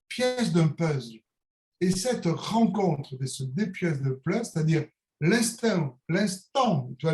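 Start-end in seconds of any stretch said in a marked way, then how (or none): 5.2-6.0 southern French Niçois vowel on "l'instinct"; Niçois accent. Real, not acted. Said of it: "avec mon accent niçois".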